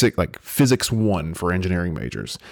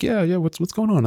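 much higher, breezy professor voice; lightly mocking the teacher's welcome; voicing the professor; 9 semitones higher than usual. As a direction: play the casual professor up high.

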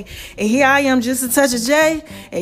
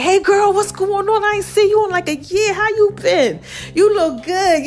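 put-on higher, bubbly hello to an old friend; cheery girlfriend greeting; 6 semitones higher than usual. Davita girls greeting her, bubbly and higher. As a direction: gush like you haven't seen her in a year.

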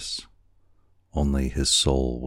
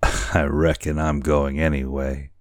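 lightly voiced tipsy boatswain; a hint of boozy carelessness; drunken sailor. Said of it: "how drunken it appeared".

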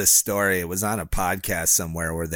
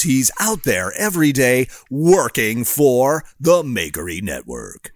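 announcer voice; 4 semitones higher, 4 dB louder than usual. Acted. Hyping Craig like an ad.

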